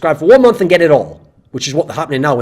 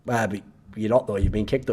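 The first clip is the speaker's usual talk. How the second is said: dry reasonable voice; 6 semitones lower, 9 dB quieter than usual. Pretend. Voicing the sensible other side.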